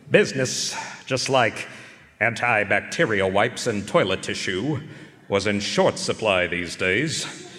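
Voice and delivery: dry noir detective narration; wry private-eye voice-over, unhurried; hard-boiled narration. A narrator's reading. Detective narrating his lonely Christmas Eve, dry noir voice-over.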